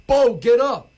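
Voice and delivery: high, loud mock grief cry; mock devastated wail. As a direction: wail over the fallen friend, hammed up. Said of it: "Loop is devastated".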